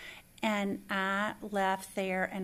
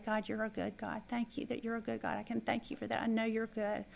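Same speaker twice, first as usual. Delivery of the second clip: soft prayer; 6 dB quieter than usual. Retold or imitated. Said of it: "I remember to say".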